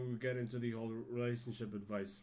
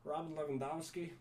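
"Robert" with an American r, "Lewandowski" said "Levandovski"; 2 semitones higher than usual. Shown as a demonstration. Mimicking how Americans say the name, American-accented. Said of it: "Americans tend to say".

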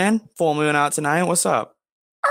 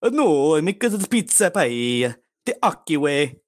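Count Dracula; 3 semitones higher than usual. Pretend. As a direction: play a campy Transylvanian vampire. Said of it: "Count Dracula".

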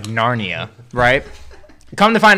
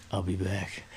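low, quiet, deadpan farewell; a hint of the Terminator, flat and low; ominous line; 7 semitones lower, 15 dB quieter than usual. Guy at a party giving an ominous farewell, low and quiet. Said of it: "He's like".

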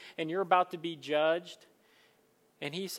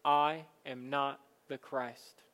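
humble confession; slower than usual. Shown as a demonstration. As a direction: say it slowly and humbly. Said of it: "we can confess".

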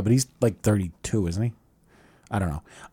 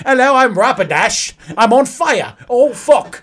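mock British; 5 semitones higher, slower than usual. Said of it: "Is it in British?".

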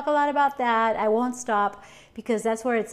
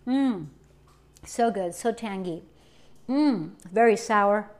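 while sipping a drink; 3 semitones lower than usual. Real, not acted. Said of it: "Let me have a sip here".

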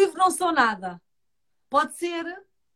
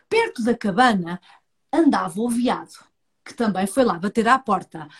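story narration; 3 semitones lower than usual. A narrator's reading.

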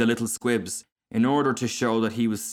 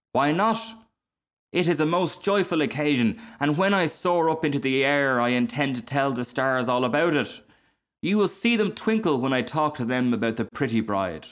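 lightly voiced, higher-pitched eager figure; cheerful fire balloon; 5 semitones higher than usual. Small fire balloon defends the joyful occasion, mildly gleeful. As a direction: share the delight with a little lift.

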